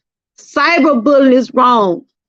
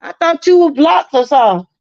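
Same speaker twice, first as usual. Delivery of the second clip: mock surprised cry; 6 semitones higher than usual. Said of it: "I be like".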